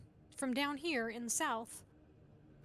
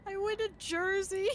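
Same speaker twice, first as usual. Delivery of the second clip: mom's confession; 7 semitones higher, 5 dB louder than usual. Retold or imitated. Mom's sheepish confession in story.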